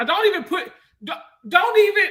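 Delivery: laughing protest. Real, not acted. Laughing, heated objection.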